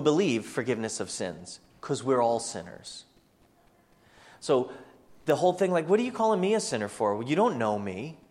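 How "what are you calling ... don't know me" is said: mock offended comeback; indignant objection. Offended listener answering being called a sinner, indignant.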